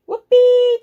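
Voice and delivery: high, loud, gleeful whoop; cowboy whoop. Acted. Space cowboy zooming through the Milky Way, cowboy whoop. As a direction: let out a big high holler.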